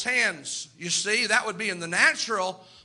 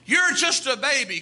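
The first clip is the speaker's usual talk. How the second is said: declared out to the whole church; emphatic preaching; 3 semitones higher than usual. Shown as a demonstration. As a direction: proclaim "You're" with force. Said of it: "That's what he said".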